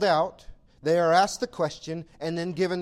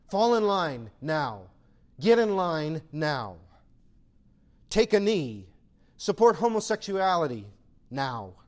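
commanding demand. Acted. Voicing the world's demands.

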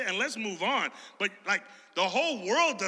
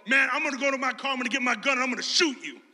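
mock threat; 4 semitones higher, 4 dB louder, faster than usual. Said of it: "the other guys go".

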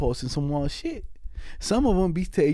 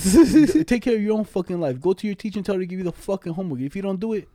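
acted scolding, a touch raised; mock mad telling-off; 3 semitones higher than usual. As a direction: pretend to lay into him. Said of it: "talk to you all mad and shit".

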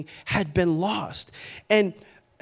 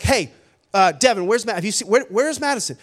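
worried, stumbling question, slightly raised; retold rising panic; 3 dB louder than usual. Dad asking his son about missing daughter, mock panic. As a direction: demand to know, tripping over the words. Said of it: "to utter panic".

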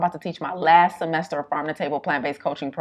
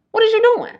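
mock yell; 4 dB louder than usual. Retold yelling at friend.

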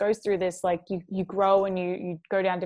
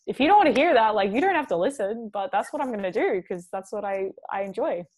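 defiant declaration. Retold or imitated. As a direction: throw it out like a challenge to the doubters. Retold defiant declaration to critics.

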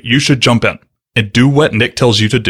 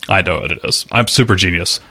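sarcastic; 4 semitones lower than usual. Pretend. Host jokingly claiming to know the jargon, sarcastic. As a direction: toss off a joking brag, pitched down. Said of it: "I'm being sarcastic".

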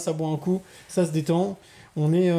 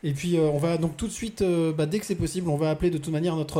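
distant, off-mic voice; far from mic. Real, not acted. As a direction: speak from far from the microphone. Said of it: "que t'es loin du micro".

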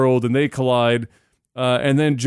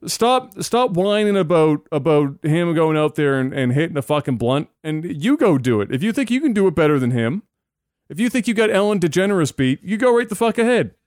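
exasperated, higher-pitched scolding; pissed-off rant; 5 semitones higher than usual. Real, not acted. Host fed up with Musk's critics, exasperated. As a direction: tell the critics off, pitch raised. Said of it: "it just pisses me off".

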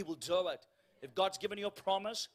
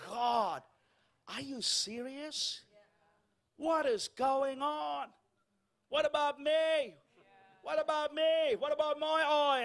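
inner exasperation; 6 semitones higher, slower than usual. Retold or imitated. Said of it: "But on the inside".

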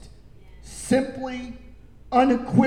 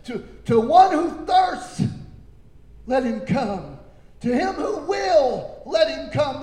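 proclaimed; 4 semitones higher, 3 dB louder than usual. Acted. Preacher proclaiming scripture quote.

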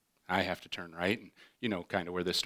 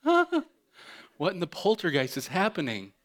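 put-on baffled kid; 7 semitones higher than usual. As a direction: yelp it in confusion. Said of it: "I'm like".

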